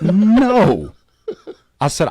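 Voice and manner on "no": loud, high laughing refusal; laughing firm no. Real, not acted. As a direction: laugh out a final no.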